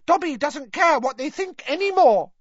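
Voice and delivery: high, loud elf declaration; defiant elf. A narrator's reading. Dobby disowns his old masters, loudly defiant. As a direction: throw it out in defiance. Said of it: "said Dobby defiantly".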